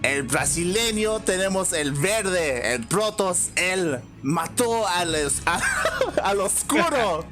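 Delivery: high, hyped ring announcer with laughs; lucha libre announcer. Pretend. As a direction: hype the fighters like wrestling night. Mock Spanish ring intro.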